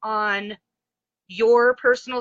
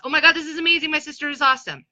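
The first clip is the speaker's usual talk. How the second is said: excited gushing; 6 semitones higher, 4 dB louder, much faster than usual. Retold or imitated. Sister's friends gushing.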